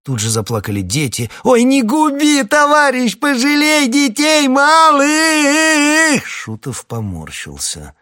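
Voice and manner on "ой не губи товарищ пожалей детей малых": high, loud, drawn-out wailing plea. Acted. Woman wails to the officer, begging mercy. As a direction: beg for the children, wailing.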